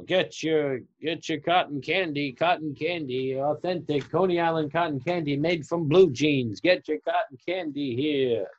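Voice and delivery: lightly voiced fairground vendor calling to the crowd; cotton candy vendor. Vendor calling out at Coney Island.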